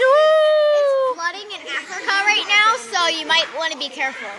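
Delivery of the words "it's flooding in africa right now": drawn-out announcer-style shout; slow mock warning shout. Kid warning viewers about Africa, slow mock-announcer shout. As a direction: boom out the warning slowly, hammed up.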